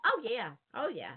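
Southern "oh yeah" with swooping, stretched vowels; Southern drawl. Shown as a demonstration. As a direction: stretch each word into extra Southern syllables. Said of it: "two or three syllables out of one word".

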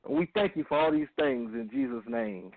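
earnest, measured radio prayer. Acted. Leads opening prayer.

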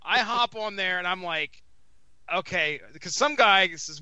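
ordinary delivery

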